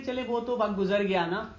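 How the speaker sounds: unbothered, easygoing reply; very calm. Shown as a demonstration. Teacher models answering someone who drags up the past, calmly. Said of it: "آپ نے بڑے آرام سے ایسے بولنا ہوتا ہے".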